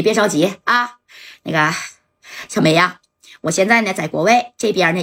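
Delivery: lightly voiced big shot, calm and reassuring; a hint of a smooth patron calming her down; composed boss soothing lover. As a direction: boss on the phone comforting his crying ex.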